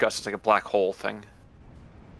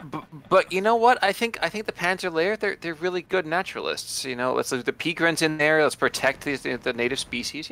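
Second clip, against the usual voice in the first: nature documentary; 5 semitones higher than usual. Pretend. Mock wildlife talk about the soldiers.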